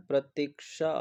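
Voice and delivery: प्रतीक्षा in slow, parted syllables; long vowel shown. Shown as a demonstration. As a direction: draw out pra-teek-shaa in प्रतीक्षा. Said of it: "मात्रा बड़ी वाली". (प्रतीक्षा, बड़ी 'ई' खींचकर)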